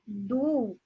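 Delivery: du sounded alone as the strong syllable; stressed syllable. Shown as a demonstration. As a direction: isolate and lengthen du. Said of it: "a posição da palavra mais forte". (du isolado, como sílaba tônica)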